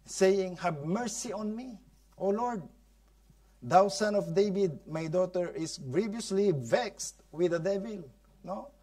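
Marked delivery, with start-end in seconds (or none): 0.6-8.1 raised pitch, a touch of crying; tearful plea. Acted. Mother begging Jesus for her daughter, mildly tearful plea. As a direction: plead for your sick daughter. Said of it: "Umiyak siya ng umiyak".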